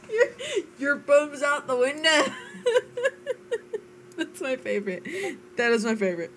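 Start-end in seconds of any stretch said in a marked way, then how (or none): 0.1-2.2 a Scottish phrase cracking up with laughter; laughing attempt at a Scottish accent; laughing Scottish line. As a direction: try the Scottish saying but giggle through it. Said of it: "Scottish phrases".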